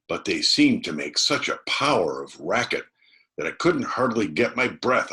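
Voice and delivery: put-on high, loud, excited boy telling a scare; a boy still gasping from the run, spilling the story; breathless frightened boy. A narrator's reading. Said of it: "As soon as Tom got his breath".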